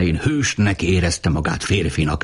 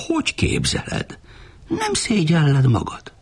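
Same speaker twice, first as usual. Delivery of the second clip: indignant scolding; 10 semitones higher than usual. A narrator's reading. Woman scolding Uri for his claim, indignant and high. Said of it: "kiáltotta a simogató felháborodva".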